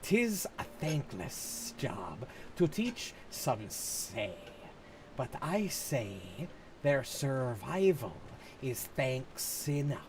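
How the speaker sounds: slow, drawn-out S's, lightly hissed; snake voice. Acted. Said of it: "what the fuck I'm trying to do with the fucking snake voice".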